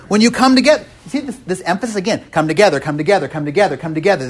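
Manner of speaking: hammered "come together"; emphatic repetition. Shown as a demonstration. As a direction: land hard on "together" each time. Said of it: "this is Paul's emphasis".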